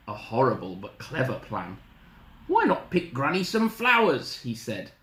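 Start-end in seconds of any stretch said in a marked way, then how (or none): 2.5-4.4 higher, lightly coaxing suggestion; a hint of a scheming sweet-talker; coaxing wolf. Wolf tricking Little Red, lightly coaxing high voice.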